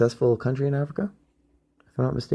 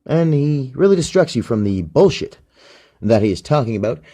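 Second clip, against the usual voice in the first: lightly voiced smooth Obama talk, higher and louder; Obama impression; 5 semitones higher, 5 dB louder than usual. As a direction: parody a smooth-talking president, a bit higher and louder. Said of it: "he talks like this".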